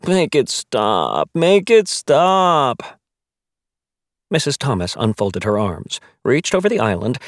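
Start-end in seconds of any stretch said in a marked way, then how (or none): 0.1-1.3 slow, groaning plea. Acted. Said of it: "Fitch groaned". 1.3-3.0 higher, louder, very slow whine; whiny wail. Acted. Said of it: "Fitch groaned".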